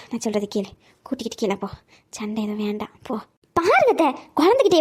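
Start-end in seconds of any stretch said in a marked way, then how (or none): 0.1-3.1 weak pleading. Acted. Sick grandmother pleading weakly.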